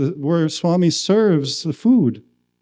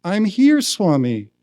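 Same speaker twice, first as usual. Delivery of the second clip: desperate plea; 2 semitones higher than usual. Retold or imitated. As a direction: beg to be seen. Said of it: "now absolutely desperate".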